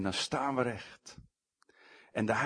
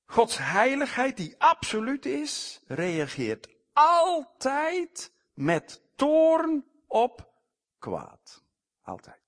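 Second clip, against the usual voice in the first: much higher and louder, drawn out slowly; fervent preaching climax; 11 semitones higher, 5 dB louder, slower than usual. Real, not acted. Preacher warning the congregation of God's wrath, fervent. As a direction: preach it with mounting fire, slow on toorn.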